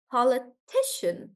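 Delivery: politician with ti stressed. Shown as a demonstration. Teacher models politician for the class, ti stressed. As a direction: lean on ti in politician. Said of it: "the stress changes here".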